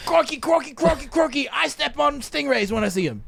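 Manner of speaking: crikey yelled in a put-on Australian accent like a wildlife host; mock Australian accent. Host riffing on the Australian story with a hammed-up Australian accent. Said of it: "extra Australian".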